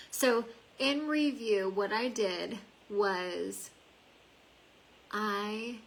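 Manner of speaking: slow, distracted while doing mascara; talking while brushing on mascara; applying mascara. Real, not acted. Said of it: "I can't talk and do my mascara".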